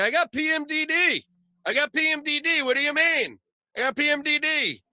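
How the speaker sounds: high, mocking voice of a woman with an excuse; mock woman claiming PMDD. Mocking a woman who blames PMDD, high and whiny. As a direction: whine it up high like she's got a free pass. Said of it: "Be like".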